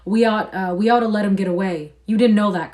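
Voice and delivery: urgent, bursting to tell George; excited. A narrator's reading. Candy urging George, excited and loud. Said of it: "Candy said excitedly".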